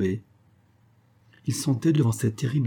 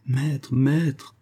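pleading cry; 4 semitones higher than usual. Acted. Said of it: "s'écria Hermann".

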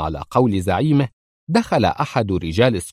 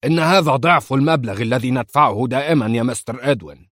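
angry growl; 3 semitones higher than usual. Acted. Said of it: "صدرت زمجرة غاضبة".

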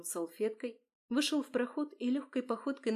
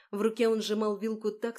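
plain reading voice

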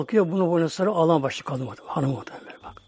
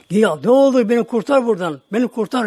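high, loud pleading cry; desperate begging; 5 semitones higher, 5 dB louder than usual. Retold or imitated. Man in hell begs the narrator to save him, high loud pleading. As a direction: beg for rescue with everything. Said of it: "yalvardım".

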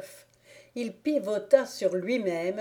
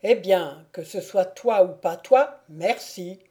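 louder, dismissive thanks; offhand stranger; 4 dB louder than usual. Acted. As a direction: brush him off.

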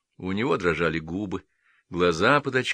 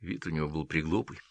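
ordinary delivery

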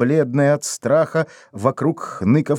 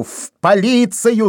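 much higher, slow second cry; громче; louder shout; 10 semitones higher, 3 dB louder than usual. A narrator's reading. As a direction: repeat it, shouting harder. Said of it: "закричал Вайнер".

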